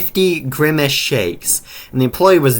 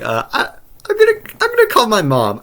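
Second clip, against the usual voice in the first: scared; 10 semitones higher than usual. Retold or imitated. Scared kid wants to leave.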